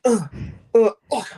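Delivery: short mock groans of being hit; mock dying grunts; imitated grunts. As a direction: grunt like you're taking blaster hits. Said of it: "they went like".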